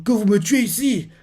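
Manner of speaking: high, tearful despair. Retold or imitated. Young Kuma telling his captors to kill him, tearful. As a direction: say it with tears in your eyes. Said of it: "Il dit ça avec des larmes aux yeux".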